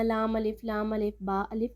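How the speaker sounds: "لام الف، با الف" run together quickly with no pause; rushed wrong way. Shown as a demonstration. Teacher warning students against rushing the letters. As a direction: hurry through "لام الف" without stopping. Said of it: "ہم نے جلدی جلدی نہیں پڑھنا".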